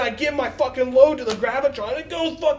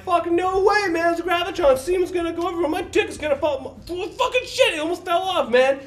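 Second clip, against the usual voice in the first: higher, worked-up refusal, voice pitched up; excited protest; 5 semitones higher than usual. Retold or imitated. To his buddy about the Gravitron, a higher worked-up protest. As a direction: squeak out the objection like it's obvious.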